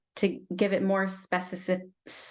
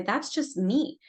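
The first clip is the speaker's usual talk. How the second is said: higher-pitched acted self-defining claim; lightly voiced inner part, raised pitch; voicing an insistent part; 5 semitones higher than usual. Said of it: "and we say".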